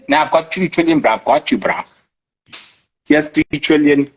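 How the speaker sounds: casual mock reply handing over money; lightly voiced friend chipping in; slangy trader buddy. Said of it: "I think they talk like that".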